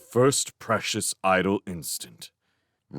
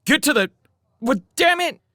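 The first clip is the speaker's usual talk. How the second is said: high, loud and rattled; flustered; 7 dB louder than usual. Acted. Showen, rattled, curses loudly over the radio. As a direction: trip over it in alarm.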